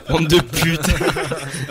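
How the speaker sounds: drawn-out laughing insult. Real, not acted. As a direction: drag it out while laughing. (en riant)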